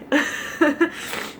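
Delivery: short voiceless laugh through tears; teary laugh. Real, not acted. Mom sharing her story with viewers, teary laugh. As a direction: laugh it off while welling up. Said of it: "as I get all teary".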